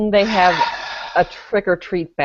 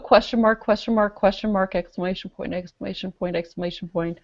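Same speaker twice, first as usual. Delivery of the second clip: dutifully reciting each question mark and exclamation point; reading every mark aloud; 4 dB quieter, faster than usual. Retold or imitated. Mocking a commenter's post, deadpan reciting each mark. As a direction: drone through the punctuation, deadpan. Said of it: "I like how you strive for accuracy".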